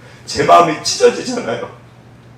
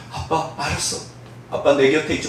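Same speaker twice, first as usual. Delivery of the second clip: put-on hushed child; 6 dB quieter than usual. Child answers father after waking.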